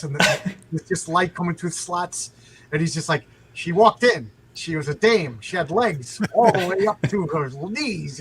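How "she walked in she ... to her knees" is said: hardboiled narrator voice, lightly done; imitating a noir detective narration. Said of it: "he just talks like that".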